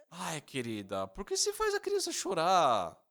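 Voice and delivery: high-pitched, exasperated mock complaint to his wife; irritated complaint. Husband woken at night, complaining irritably to wife. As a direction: whine at her for waking the baby. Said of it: "Eu acordei muito irritado".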